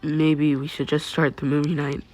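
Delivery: choked-up, soft voice; lump in throat. Acted. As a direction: speak through a lump in the throat. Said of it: "through the lump in his throat".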